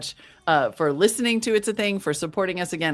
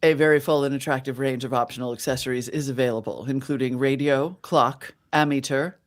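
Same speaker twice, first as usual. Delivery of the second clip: put-on old-time radio ad voice in mid-Atlantic accent; 5 semitones lower than usual. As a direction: read it like a thirties mid-Atlantic announcer. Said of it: "It's either mid-Atlantic ac-, accent or slightly British".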